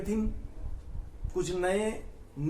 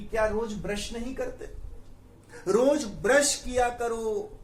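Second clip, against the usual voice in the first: mock scolding; 4 semitones higher, 3 dB louder than usual. Dentist harshly scolding a child for not brushing. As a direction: scold the kid like a stern dentist. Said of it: "harsh tone में, डांटने वाले tone में कहा".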